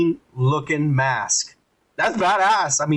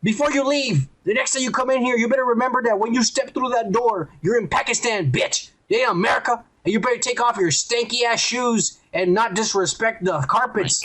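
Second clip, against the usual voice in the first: higher, hammed-up scolding cleric voice; lightly voiced stern imam; 5 semitones higher than usual. Mosque priest scolding the woke lady, hammed up and higher. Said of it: "he tells her".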